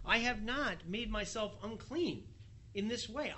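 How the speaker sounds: Peter protesting. Acted. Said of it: "he says".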